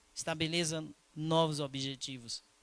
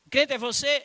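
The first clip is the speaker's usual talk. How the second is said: voicing the Spirit; 11 semitones higher, 12 dB louder than usual. Spirit questioning in retold dialogue.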